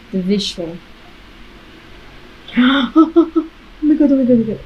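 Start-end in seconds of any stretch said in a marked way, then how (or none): 2.6-4.6 gasping shock. Real, not acted. First drop of VR roller coaster.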